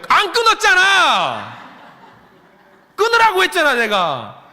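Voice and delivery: loud, slow mock reproach with a laugh; laughing scold. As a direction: scold them half laughing.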